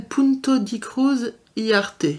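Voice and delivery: Spanish name in a French accent; non-native Spanish accent. Real, not acted. Vlogger reading out a Spanish seller's name, French-accented Spanish. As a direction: say it as a French speaker attempting Spanish. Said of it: "Excusez pour mon accent".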